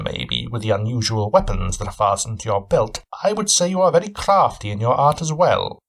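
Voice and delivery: a hint of a keen, probing detective; Sherlock Holmes. Cabin owner sizing up his guest, lightly voiced shrewd questioning.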